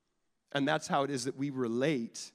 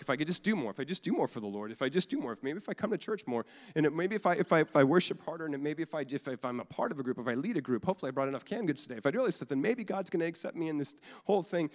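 anxious striver; 2 semitones higher, faster than usual. Retold or imitated. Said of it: "we get into this thing".

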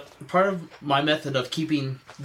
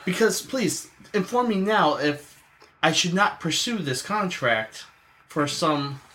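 lightly voiced courteous tradesman, higher pitched; polite tradesman; 6 semitones higher than usual. Tradesman asking ma'am about the contract, mildly concerned courtesy. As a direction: politely probe for a straight answer, pitched up.

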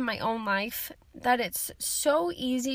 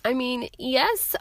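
croaky, cold-roughened voice; a creaky frog voice from a summer cold; hoarse from a cold; 4 dB louder than usual. Real, not acted. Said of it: "if I sound like a creaky frog during this".

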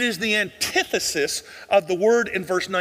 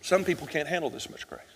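quiet repeat, softer still; 3 semitones lower, 7 dB quieter than usual. Real, not acted. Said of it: "Let me tell you the sad truth".

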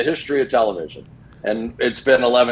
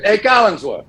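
heckling fan call; 8 semitones higher than usual. Retold or imitated. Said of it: "this guy turns around and goes".

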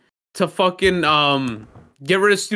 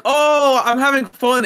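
light, pitched-up pretend delight; mock carefree fun; 5 semitones higher than usual. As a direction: imitate someone blissfully having fun. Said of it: "it's like you're like".

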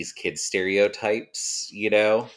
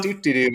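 higher, singsong "doo-doo-doo"; carefree little filler tune, hammed-up; mock nonchalant doo-doo-doo; 5 semitones higher than usual. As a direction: imitate someone strolling along obliviously. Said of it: "completely nonplussed".

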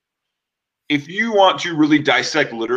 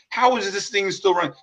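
higher, amazed question; retold amazement; 8 semitones higher than usual. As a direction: marvel that it still works. Amazed at neglected car.

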